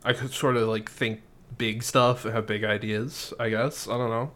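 soft, unsure mumble trailing away; tentative pitch from a shy kid; timid kid Kev. Acted. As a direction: hedge it quietly, losing confidence. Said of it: "Kev's like".

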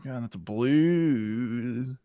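blues said slow, ending swallowed; slurred blues. Real, not acted. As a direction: drag out blues so the s gets lost. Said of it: "It's blued?".

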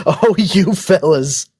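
high, laughing, drawn-out coyness; hammed-up blushing thanks; mock bashful. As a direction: play flattered with a giggle. Playfully coy reply to compliments.

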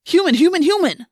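high, loud, insistent shout; urgent command. A narrator's reading. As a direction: shout it urgently at a panicking friend. Urgent order to panicking friend.

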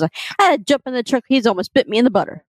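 Southern drawl. Retold or imitated. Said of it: "she goes".

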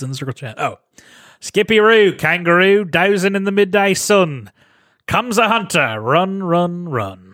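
light Aussie reading voice; Australian accent. Pretend. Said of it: "read it for us in your Australian accent".

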